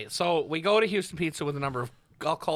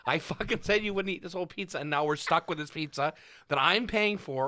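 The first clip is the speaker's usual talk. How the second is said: exasperated, mildly raised mock shout; retold shouting; 4 semitones higher than usual. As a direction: scold him in half-laughing indignation. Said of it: "I fucking shouted at him".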